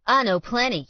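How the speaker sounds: sharp, loud and high snarl; loud high-pitched jeer; angry retort. Acted. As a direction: spit it back at him. Alan snaps back at Colt.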